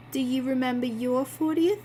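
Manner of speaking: put-on slipped into the wrong character accent; a misplaced accent for Christine. Christine asks Bill about his fortieth, wrong accent. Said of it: "Oh, wait, wrong accent".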